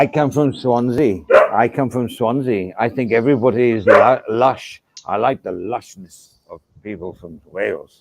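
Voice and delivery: rough, lilting go at Welsh; attempted Welsh accent. Host claims to come from Swansea, mock Welsh accent. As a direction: have a stab at a Welsh accent. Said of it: "That's as close as you can get".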